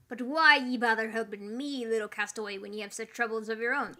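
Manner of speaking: put-on a ghostly captain in a pirate accent; a hint of a pirate captain. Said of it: "That's the right accent".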